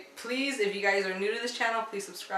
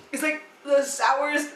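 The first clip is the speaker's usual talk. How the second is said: eating sour candy; 4 semitones higher than usual. Real, not acted. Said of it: "It's so sour".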